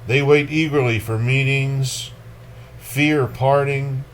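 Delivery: measured, dark poetry recital; lightly dramatic poem reading. Acted. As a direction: read it like a grim memory. Reads Akhmatova poem.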